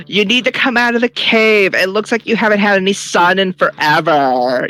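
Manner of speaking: yelling taunt. Acted. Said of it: "And then I yell into the cave".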